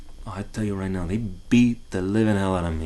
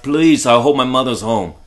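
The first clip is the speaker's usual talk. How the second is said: put-on louder, pleading child; begging kid; 3 semitones higher, 9 dB louder than usual. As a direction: beg to be spared, voice pushed up. Kid pleading, scared of father.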